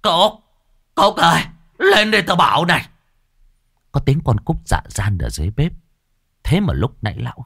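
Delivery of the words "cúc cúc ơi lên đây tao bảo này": much higher, louder panicked yell; bellowing for the maid. Acted. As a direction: shout the name up high in alarm. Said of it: "liền gào lên". (gào to gọi người hầu, giọng cao)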